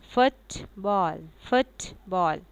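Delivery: फुटबॉल stressed on फुट, lighter on बॉल; stress on first word. Shown as a demonstration. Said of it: "हमारा stress पहले word पे होगा".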